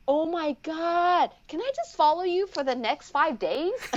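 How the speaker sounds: high, slowed start, pleading excitement; gushing like a starstruck fan; eager plea. Retold or imitated. Asking the lady to let her follow along, gushing.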